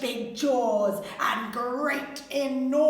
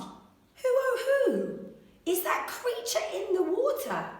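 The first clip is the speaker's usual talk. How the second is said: wondering question; 9 semitones higher than usual. A narrator's reading. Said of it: "and asked".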